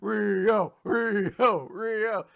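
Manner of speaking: half-hearted high cheering and chanting; cheering crowd. Acted. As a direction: chant the name like adoring fans. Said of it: "everyone's like".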